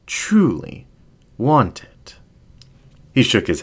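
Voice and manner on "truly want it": breathy whispered temptation; seductive whisper. Acted. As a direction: whisper it close to his ear.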